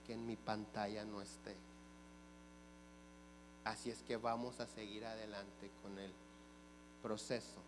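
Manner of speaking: imitating a stunned, subdued clerk; low, quiet relay of the supervisor's orders. Clerk returns from the supervisor to the customer, stunned. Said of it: "impactada y me dice".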